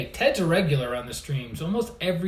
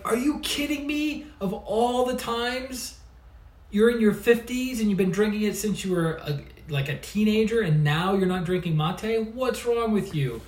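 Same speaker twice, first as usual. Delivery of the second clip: much higher, incredulous, playfully outraged; mock disbelief; 7 semitones higher than usual. To a friend quitting mate, high mock disbelief. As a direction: act stunned that your friend quit his tea. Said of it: "And I was like".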